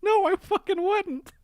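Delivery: high, loud, drawn-out no; loud disgusted refusal. Real, not acted. Disgusted refusal to smell purse.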